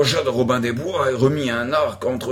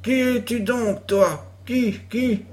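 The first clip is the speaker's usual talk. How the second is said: villain's retort; 8 semitones higher than usual. A narrator's reading. The narrator plays Guy de Gisborne.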